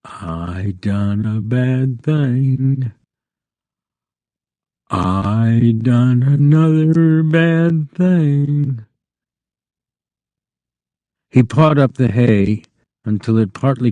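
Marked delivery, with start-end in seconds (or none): 0.0-8.9 slow, hushed, frightened; frightened whisper. A narrator's reading. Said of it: "he whispered in fright".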